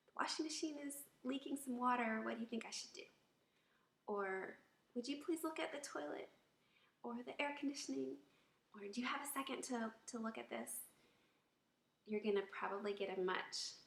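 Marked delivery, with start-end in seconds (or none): 0.1-3.1 polite, gentle asking; pleasant tone. Shown as a demonstration. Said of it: "are pleasant". 4.9-10.9 gentle, polite request; pleasant tone. Shown as a demonstration. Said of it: "are pleasant".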